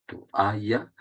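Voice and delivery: "toalla" with the A stressed, to-A-lla; "toalla" split before its stressed A. Shown as a demonstration. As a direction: lean on the A after "to" in "toalla". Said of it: "la sílaba tónica es la A".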